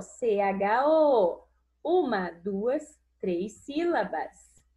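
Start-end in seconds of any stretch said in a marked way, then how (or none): 0.0-1.5 slow spelling. Shown as a demonstration.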